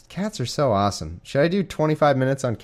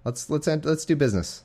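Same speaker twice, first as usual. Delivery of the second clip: mock God voice; 5 semitones higher than usual. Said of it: "That's what God's saying here".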